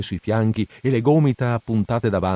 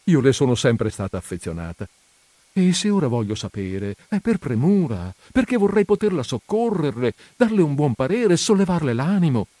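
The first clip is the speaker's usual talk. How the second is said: moved voice; 4 semitones higher than usual. Acted. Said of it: "con voce commossa e da commovere".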